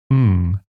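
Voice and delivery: "ng" as the nasal at the end of song; ng sound. Shown as a demonstration. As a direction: hum "ng" through the nose, tongue back. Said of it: "as at the end of words like song".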